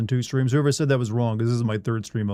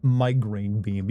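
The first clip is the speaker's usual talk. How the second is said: anime character voice; 3 semitones lower, much slower than usual. Shown as a demonstration. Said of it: "You gotta say it like an anime character".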